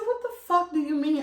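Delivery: high, loud incredulous protest; retold indignation. Woman retelling her protest to her lover, indignant. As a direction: throw it back in mock outrage.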